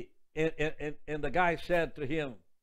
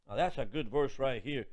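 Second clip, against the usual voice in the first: ordinary talk, nothing marked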